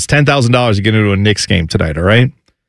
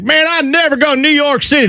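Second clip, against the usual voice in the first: much higher mock redneck from Ohio; hammed-up Ohio redneck, pitched way up; 13 semitones higher than usual. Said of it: "redneckiest guy from Ohio who's like".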